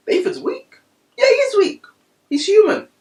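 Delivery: high, loud cry; shouted declaration. Real, not acted. Preacher proclaims to the crowd, loud and high. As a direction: proclaim it at full voice.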